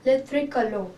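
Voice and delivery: le tricolore said luh tree-ko-LOR; le tricolore with the French r. Shown as a demonstration. Teacher giving the French name of the flag. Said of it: "and in French we say it as".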